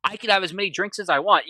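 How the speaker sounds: a touch of combative self-justification; mildly aggressive. Retold or imitated. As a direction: retell it as a touchy husband insisting. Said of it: "getting aggressive again".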